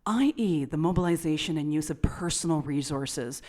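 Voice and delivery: formal read-out voice; announcer voice. Acted. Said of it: "You've got your announcer voice".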